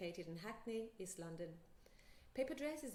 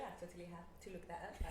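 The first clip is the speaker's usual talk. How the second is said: laughing; 3 semitones lower, faster than usual. Real, not acted. Host admits looking up place.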